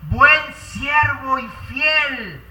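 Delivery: very slow, drawn-out warm blessing; slow tender praise. Acted. The Lord welcoming his faithful servant, slow and tender. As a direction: savour each word of praise. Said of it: "nos dice".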